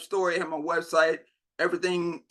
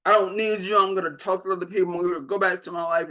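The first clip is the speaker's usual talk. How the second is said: ranting and raving; 2 semitones higher, faster than usual. Retold or imitated. Retelling her rant at the producer, a fast hammed-up outburst. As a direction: rattle off a defiant tirade, half acted. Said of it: "ranting and raving".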